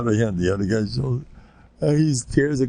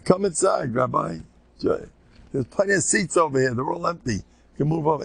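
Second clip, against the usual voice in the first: put-on eager kid voice; 5 semitones higher than usual. Kids inviting rabbi in.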